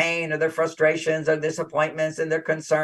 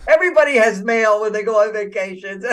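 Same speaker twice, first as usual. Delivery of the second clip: exasperated retort; 2 semitones higher, 3 dB louder than usual. Retold or imitated. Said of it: "I just so much wanted to say".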